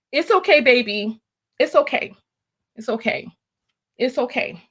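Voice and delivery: soft, low reassuring murmur; soothing a scared dog. Real, not acted. Soothing after heated reading.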